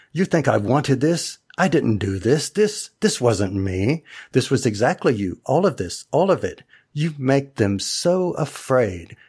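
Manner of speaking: lightly acted monologue, lively rises and falls; understated dramatic reproach; dramatic scene recitation. Recites a favorite scene from memory.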